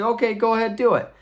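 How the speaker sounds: high, loud mock-wife dare; challenging dare. Wife dares knight to take armor off, challenging.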